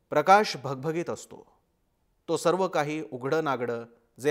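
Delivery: measured, suspenseful storytelling with weighty pauses; dramatic horror narration. A narrator's reading. Reader sharing a horror story for Marathi Language Day, suspenseful narration.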